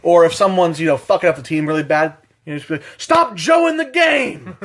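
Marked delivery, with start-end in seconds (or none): 3.0-4.5 high, slow, laughing yell at a teammate; mock callout. To a teammate fucking up the team, a high laughing mock shout. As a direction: stretch it out like a gleeful taunt.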